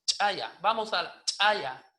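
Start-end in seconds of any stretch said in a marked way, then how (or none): 0.1-0.6 "chaya" with a popped ejective CH; explosive CH. Shown as a demonstration. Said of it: "C H explosiva". 1.2-1.9 "chaya" with a hard ejective CH; explosive CH. Shown as a demonstration. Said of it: "Así es la palabra correcta".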